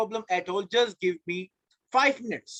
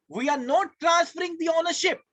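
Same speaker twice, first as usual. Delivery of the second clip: emphatic shout; 6 semitones higher than usual. Real, not acted. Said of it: "teacher emphasising".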